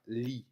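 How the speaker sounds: "lit" said with a French i; Walloon word read out. Shown as a demonstration. Teacher demonstrating a Walloon word. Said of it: "le mot se prononcera".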